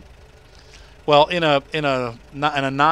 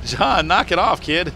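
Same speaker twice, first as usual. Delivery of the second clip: parental scolding; 6 semitones higher, 6 dB louder, slower than usual. Real, not acted. Scolds yelling child in background.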